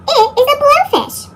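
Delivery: high, playful reveal. A narrator's reading. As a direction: announce the blowfish. Reveal of blowfish.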